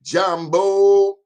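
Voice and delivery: high, loud, beaming Jambo; enthusiastic greeting. Retold or imitated. Host greeting East African viewers, high and loud with enthusiasm. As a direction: throw out Jambo with big enthusiasm. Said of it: "they said it with enthusiasm".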